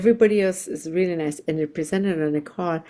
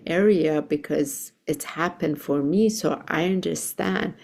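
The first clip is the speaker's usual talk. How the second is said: softer. Retold or imitated. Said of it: "getting even softer".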